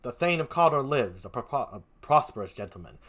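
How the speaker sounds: a hint of a stern nobleman; steady, grave Macbeth; lightly played Macbeth; lightly voiced Macbeth. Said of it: "Macbeth is like this".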